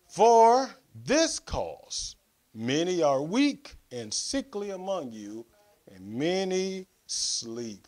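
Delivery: emphatic, declamatory Bible reading; scripture reading. Real, not acted. Preacher reading the Lord's Supper passage to the congregation, emphatic scripture reading. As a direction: proclaim the verses with weight on key words.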